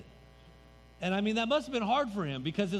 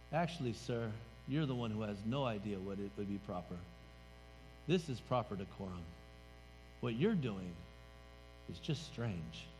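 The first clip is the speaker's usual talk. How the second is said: Jesus rebuking; 8 semitones lower, 6 dB quieter than usual. Acted. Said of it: "And Jesus turned to him and said".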